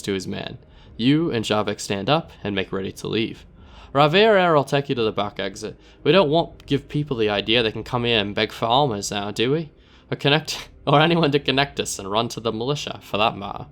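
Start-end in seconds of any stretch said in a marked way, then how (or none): 3.9-13.7 dismissive dealer in a put-on accent; Narbo's rough accent. Narbo sending the player out the back, accented. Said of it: "I don't know what accent I'm doing".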